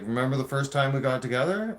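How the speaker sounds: agitated retold comeback; worked-up confrontation. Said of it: "I get excited just talking about that shit".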